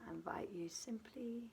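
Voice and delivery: unhurried meditation guidance with long pauses between phrases; guided meditation. Acted. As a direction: settle the listener gently into rest, leaving space after each phrase.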